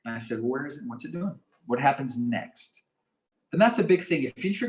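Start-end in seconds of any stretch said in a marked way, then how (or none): 0.4-2.8 soothing check-in with a client; good prosody. Shown as a demonstration. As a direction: ask gently, slowing on the last question. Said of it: "So we use good prosody".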